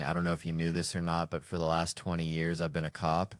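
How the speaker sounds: a hint of Seagal's deadpan. Comedian quoting Steven Seagal's intro, lightly mimicked. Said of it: "looking in the camera and saying".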